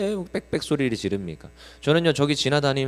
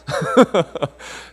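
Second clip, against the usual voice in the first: laugh; 7 semitones higher, 5 dB louder than usual. Real, not acted. Laughing after retold scolding.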